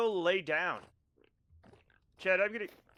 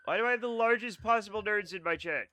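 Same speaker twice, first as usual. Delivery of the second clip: exasperated whine; 5 semitones higher, 3 dB louder than usual. Real, not acted. Complaining to chat about nerds.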